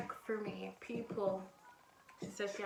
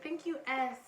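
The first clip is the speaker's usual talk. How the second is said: gushing thanks; 4 semitones higher than usual. Retold or imitated. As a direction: lay the thanks on thick. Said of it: "She, like".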